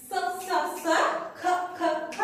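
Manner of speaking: "স" three times, then "খ" three times, each cut short; separate sounds. Shown as a demonstration. Teacher splitting S and C for children, separate sounds. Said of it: "আলাদা করে উচ্চারণ করব".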